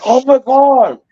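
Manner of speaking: high-pitched girlfriend outcry, imitated; mock disgusted shock. Girlfriend reacts to oversalted ham, mock shock. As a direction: exclaim it high, as the shocked eater.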